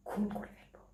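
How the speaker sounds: soft, near-whispered menace; hushed threat. Acted. Jealous bride-to-be threatens rivals, hushed. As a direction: drop to a breath for the threat.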